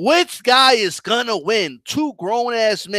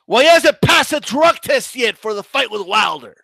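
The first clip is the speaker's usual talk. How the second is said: mocking sing-song shout; 3 semitones higher than usual. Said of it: "I was mocking people".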